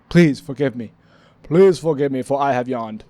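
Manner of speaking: theatrical mock apology; mock formal plea. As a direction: beg forgiveness like a courtier.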